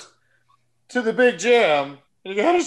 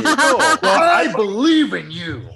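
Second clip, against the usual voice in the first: coach encouragement; 3 semitones higher, slower than usual. Pretend. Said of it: "Thanks, Coach".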